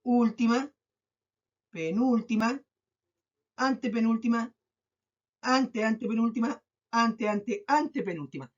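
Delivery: spaced list from Última, falling on anteanteantepenúltima; counting off positions. Shown as a demonstration. Teacher finding where the stress falls, counting off with pauses. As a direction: leave a long pause after each position. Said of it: "Veamos dónde se carga la voz".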